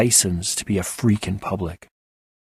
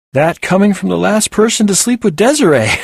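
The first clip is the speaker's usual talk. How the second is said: mocking jab; 11 semitones higher, 7 dB louder than usual. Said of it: "he responded".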